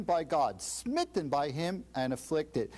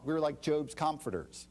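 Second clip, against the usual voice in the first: usual speaking voice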